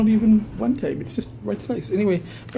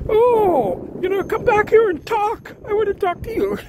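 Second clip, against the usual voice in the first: retold taunt; 10 semitones higher than usual. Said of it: "he's like going".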